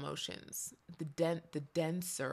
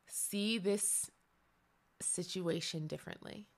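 sample prayer. Shown as a demonstration. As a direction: pray it honestly, pausing between pleas. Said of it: "this is what a prayer can sound like".

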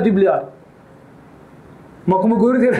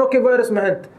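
calm gentle question; much faster than usual. Retold or imitated. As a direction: ask kindly, no pressure. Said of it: "istället för att lugna ner henne". (lugn, mild fråga)

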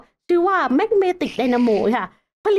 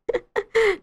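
short high-pitched chuckle; brief real laugh; 8 semitones higher than usual. Real, not acted. Streamer reacting to the big number, amused laugh. Laughs at own machine costs.

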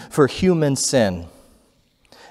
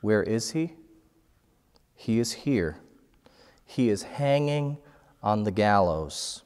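inner voice; 2 semitones lower, 6 dB quieter than usual. Retold or imitated. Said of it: "a voice inside myself answer".

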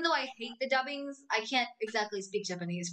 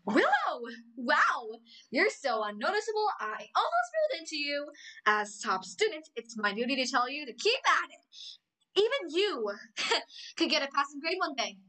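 Amity Blight impression; 3 semitones higher than usual. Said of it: "But let me try again".

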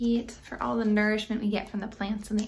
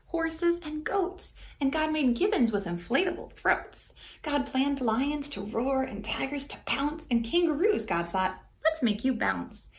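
rhythmic rhyming read-aloud; story narration. A narrator's reading. Reading a rhyming book to kids, gently lilting. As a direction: read the verse to children, bouncing the rhymes.

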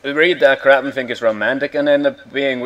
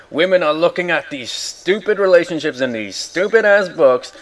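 retold rant; 5 semitones higher, 4 dB louder than usual. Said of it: "I had a big rant about it".

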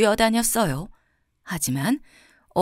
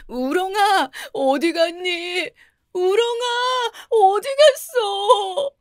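much higher, slow wailing calls that break into crying; 11 semitones higher, much slower than usual. A narrator's reading. Son searching for his vanished snail, wailing. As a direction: call out for the lost snail, sobbing. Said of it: "통곡을 하며 울어대는 아들을".

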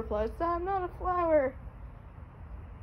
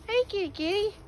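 calling a cat; 4 semitones higher than usual. Real, not acted.

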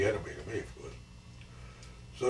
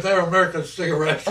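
loud, higher, cracking up; laughing; 8 semitones higher, 9 dB louder than usual. Real, not acted. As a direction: deliver the punchline as laughter takes over. Cracking up at his own joke.

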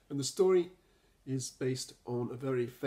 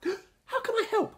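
Rabbit; 7 dB louder than usual. A narrator's reading. Rabbit answers.

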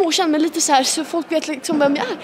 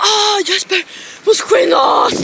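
stressed shout, higher and louder; retold panicked yell; 4 semitones higher, 8 dB louder, slower than usual. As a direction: yell at Jesper to hurry up. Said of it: "Och jag bara".

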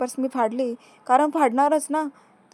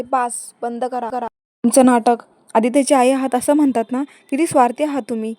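angry scolding; 7 dB louder than usual. Retold or imitated. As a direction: spit out each accusation. Mukta confronts Savni in anger.

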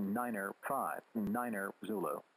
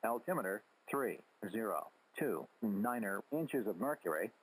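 robotic readout through radio static; crackly military radio. Real, not acted. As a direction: read it like an automated radio broadcast. Automated weather broadcast over radio.

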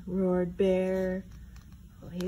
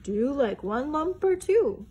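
politely; 3 semitones higher, 4 dB louder than usual. Acted. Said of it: "asked Bear most politely".

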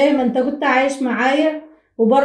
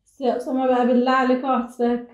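crying; 5 dB quieter than usual. Real, not acted. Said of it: "ما تعيطيش".

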